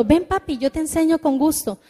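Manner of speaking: put-on a child happily helping father; gentle tone. Shown as a demonstration. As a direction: sound glad to teach your dad. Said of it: "Qué diferente el tono".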